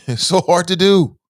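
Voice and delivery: amused laughing repeat. Real, not acted. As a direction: laugh as you say it again.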